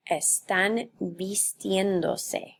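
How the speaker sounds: vistiéndose said slowly, stress on -tién-; slow down to show the stress in vistiéndose; teacher marking the stressed syllable slowly; slow stress demo. Shown as a demonstration. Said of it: "that shifts my emphasis".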